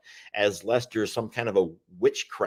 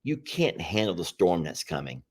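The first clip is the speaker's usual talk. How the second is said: retold whisper; 4 semitones lower, 6 dB quieter than usual. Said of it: "They whispered to her".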